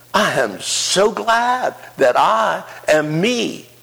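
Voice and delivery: high, slow, ringing declaration of joy; preaching at full force. Acted. Pastor testifying joyfully to congregation, preaching high and slow. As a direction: lift every "glad" up like a testimony.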